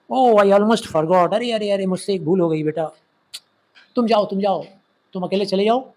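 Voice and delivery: lightly acted father, pitch lifted in surprise; father suddenly remembering. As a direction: act out a dad who just realised he forgot. Father's sudden remembering, voiced in story. (अचानक कुछ याद आने वाले पापा की आवाज़)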